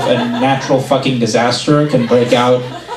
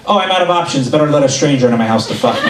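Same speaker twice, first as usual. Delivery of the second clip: mock single woman; faster than usual. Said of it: "there's no single woman at home going".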